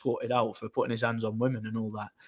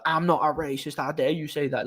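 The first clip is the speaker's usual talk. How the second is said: lightly imitated Scottish accent, higher pitch; 3 semitones higher than usual. Woman denying she's racist, mock Scottish accent. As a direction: put on a hint of indignant Scottish. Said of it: "Like, Scottish accent".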